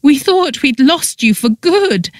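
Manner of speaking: high-pitched mock weepy lament; overdramatic tearful. A narrator's reading. Friend hugging released prisoner, overly dramatic and tearful. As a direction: ham up the tearful relief. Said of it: "in an overly dramatic, tearful voice".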